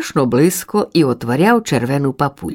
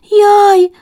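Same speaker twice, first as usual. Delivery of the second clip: high, loud startled yelp; frightened chick yelp; 6 dB louder than usual. A narrator's reading. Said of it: "додала внавка".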